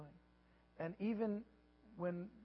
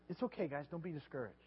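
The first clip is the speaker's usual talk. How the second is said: softer, calm and comforting; gentle reassurance; 5 dB quieter than usual. Retold or imitated. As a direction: soothe frightened friends softly. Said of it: "And he says".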